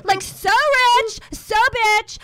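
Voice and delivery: slow, drawn-out sassy brag; doing Nene for the podcast, slow sassy brag; Nene impression. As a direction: stretch each word out like a diva. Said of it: "I could do Nene".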